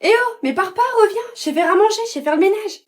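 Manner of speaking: high, loud pleading after him; desperate calling out. Acted. Girl calling after a man walking away, loud pleading. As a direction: beg him to come back, loud and high.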